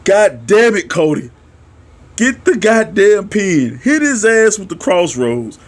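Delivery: retold urging. Fan urging Cody to get the pin, retold exasperation.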